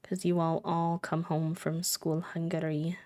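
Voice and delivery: soft slow whisper; a gentle whispered aside to the kids. Pretend. Talking to Sim kids.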